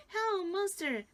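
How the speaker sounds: high, loud scared cry; frightened cry. Acted. Frightened rabbit crying out at the giant, high and loud. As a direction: yelp it in fright. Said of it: "cried the frightened white rabbit".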